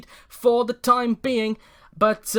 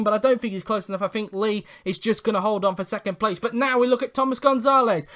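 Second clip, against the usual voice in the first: race commentary. Real, not acted. Live race commentary throughout.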